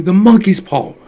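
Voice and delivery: a wild, loud, high cry. A narrator's reading. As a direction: shriek it out in sudden frenzy. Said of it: "she cried wildly".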